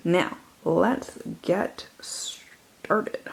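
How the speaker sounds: hushed whisper to begin; breathless whispered opener. Acted. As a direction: whisper it like a secret start. Whispered start of shelf tour.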